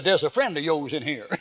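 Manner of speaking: laughing while reading aloud; amused. Real, not acted. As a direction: read it out through real laughter. Amused reading of a prisoner's letter.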